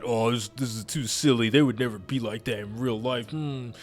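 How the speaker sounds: put-on grumbling voice of a forum critic; mock complaining critic. Gamer quoting forum criticism, mock complaining. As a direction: imitate a fussy critic objecting. Mocking online critics of silly games.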